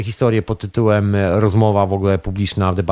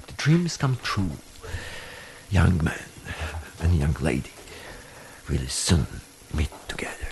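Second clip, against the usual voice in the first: British accent fading to a whisper; British accent, trailing off into a whisper; 5 semitones lower, 9 dB quieter than usual. Shown as a demonstration. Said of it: "z brytyjskim akcentem".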